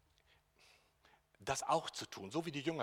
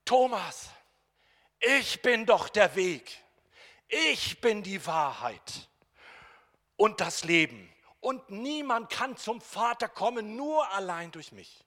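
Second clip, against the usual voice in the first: proclaiming Jesus; 9 semitones higher, 14 dB louder, slower than usual. Acted.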